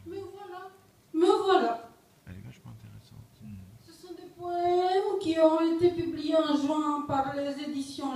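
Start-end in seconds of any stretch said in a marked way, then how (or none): 0.1-1.9 measured poem recital with long pauses; poetry reading. Acted. Poet reading to an audience, poetry reading. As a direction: recite line by line, letting each image hang. Reads own poem aloud.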